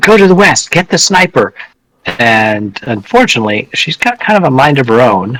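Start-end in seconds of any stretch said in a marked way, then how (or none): 0.0-1.5 rough, harsh shout forced through a whisper, pitched up. Playing a character in a tabletop game, calling out an order: harsh whispered shout. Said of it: "whisper out as kind of a harsh shout".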